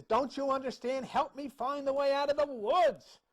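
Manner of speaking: high, exasperated plea for help; mock scream. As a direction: cry out ticked off, without full volume. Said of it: "he's screaming".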